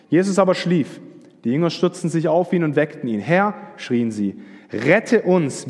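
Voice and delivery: measured Bible reading with lightly voiced quotes; scripture reading. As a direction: read the passage aloud to the church. Reads Matthew 8 aloud. (vorgelesene Bibelstelle, ruhig und getragen)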